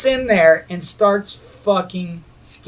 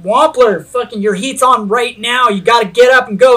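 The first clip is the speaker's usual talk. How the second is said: raised, fast urging at a tent; urgent wake-up call; 4 semitones higher, 4 dB louder than usual. Retold or imitated. Waking his hungover friend, a loud hurried call. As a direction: hurry a sleeping friend up, loud.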